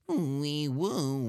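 high mouth siren, wee woo; siren noise. Pretend. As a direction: imitate a police siren with your mouth. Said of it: "that sounded like a robot on its very last leg".

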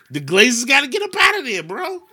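ranting shout. Real, not acted. Ranting to friends about the Glazers, fast shout. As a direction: blast the owners in a rant. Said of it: "I'm on a rant right now".

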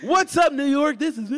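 loud, high radio announcer hype. Shown as a demonstration. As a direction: open the show like a boxing ring announcer. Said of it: "like an announcer".

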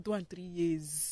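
slow, mild Port Harcourt pidgin lilt; Port Harcourt accent. Retold or imitated. Host teasing guest's Port Harcourt accent, lightly mimicking it. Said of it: "Your Port Harcourt accent".

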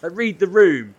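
high, loud, frazzled rant; mock exasperated outburst. Streamer to friend nagging about Minecraft, frazzled loud outburst. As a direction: snap at him in mock despair. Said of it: "And I'm like".

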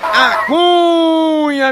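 drawn-out high shout of A Cunha; hollered catchphrase; long shouted catchphrase. Real, not acted. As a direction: stretch the name in a long shout.

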